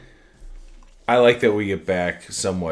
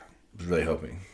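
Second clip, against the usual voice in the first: whisper; 4 semitones lower, 8 dB quieter than usual. Real, not acted. Joke about kissing, whispered.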